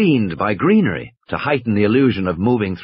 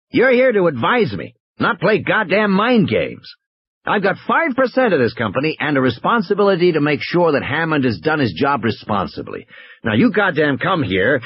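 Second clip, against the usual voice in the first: angry; 5 semitones higher than usual. Acted. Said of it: "He sounded very angry".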